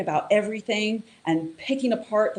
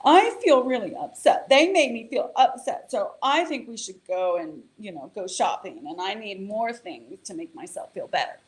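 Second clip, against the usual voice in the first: upset inner voice; 3 semitones higher than usual. Retold or imitated. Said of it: "because it's like".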